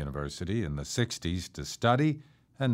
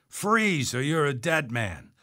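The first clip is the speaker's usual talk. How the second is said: high-pitched threatening command; narrated shout, highest on the first word; 5 semitones higher than usual. A narrator's reading. Armed man halting a runner, shouted threat. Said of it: "the man with the revolver shouted".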